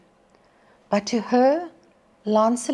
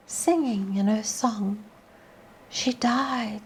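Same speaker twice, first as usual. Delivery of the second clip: storyteller's poem voice; poem recitation. Acted. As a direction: read it like a ballad to the class. Teacher recites Tennyson poem to class.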